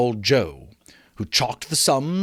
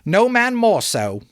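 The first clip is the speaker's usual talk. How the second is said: lightly higher agreeing woman; laundress; 10 semitones higher, 5 dB louder than usual. Acted. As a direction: chime in eagerly. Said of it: "said the laundress".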